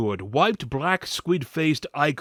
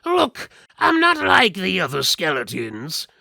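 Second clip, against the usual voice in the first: high, loud put-on skeleton voice; a caged skeleton talking big to strangers; 5 semitones higher, 6 dB louder than usual. Caged skeleton pleads with the party, high and loud. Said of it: "the skeleton said".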